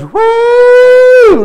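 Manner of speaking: loud, high, sustained "woo"; imitated whoop. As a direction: whoop it out high like an excited churchgoer. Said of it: "And when he goes".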